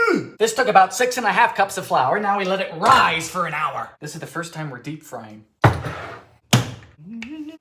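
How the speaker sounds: normal talking voice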